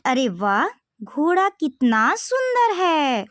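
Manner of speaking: slow, admiring exclamation; acted delight. Shown as a demonstration. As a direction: show wonder at the horse. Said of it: "तो इसमें क्या है". (धीमा, हैरानी भरा उद्गार)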